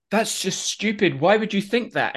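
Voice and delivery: voiced exasperated disbelief; acted disbelief. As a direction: play up being baffled and dismissive. Acting out own baffled reaction.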